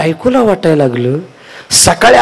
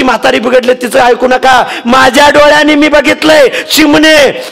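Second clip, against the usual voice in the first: wailing daughter-in-law; 9 semitones higher than usual. Acted. Wife tells father-in-law.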